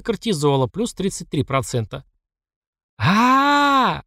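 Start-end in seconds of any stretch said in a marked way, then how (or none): 3.0-4.0 a long high scream of pain and fright; loud, high, panicked scream; yelling at the top of his lungs. A narrator's reading. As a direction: let out a full-throated scream. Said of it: "заорал я во всё горло".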